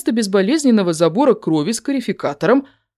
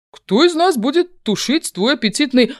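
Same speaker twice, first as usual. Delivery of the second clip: cut off mid word; 9 semitones higher than usual. A narrator's reading. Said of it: "Обрываю наглеца на полуслове".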